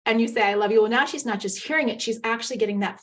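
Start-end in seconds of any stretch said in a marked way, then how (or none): 0.4-0.8 louder, heartfelt I love you; a hearty, wholehearted declaration; enthusiastic I love you. Shown as a demonstration. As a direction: say it like you mean it, wrapping her in a big hug. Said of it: "you give her a big hug".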